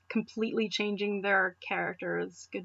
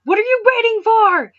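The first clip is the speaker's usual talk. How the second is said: much higher and louder demand; impatient yell; 12 semitones higher, 11 dB louder than usual. Acted. Ash demanding Zekrom finally attack, a much higher, louder yell. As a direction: scream at him to hurry up.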